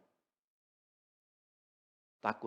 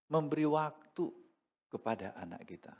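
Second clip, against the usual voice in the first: ordinary talk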